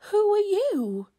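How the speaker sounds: high, loud gasping amazement; startled question. A narrator's reading. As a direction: ask the stranger in astonishment. Spider startled by enormous stranger.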